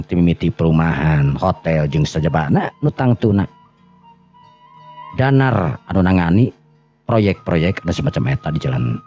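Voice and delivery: ordinary delivery, nothing marked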